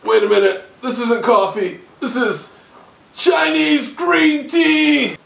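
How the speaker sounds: dawning horror to a shriek; outraged shock. Acted. Outraged discovery.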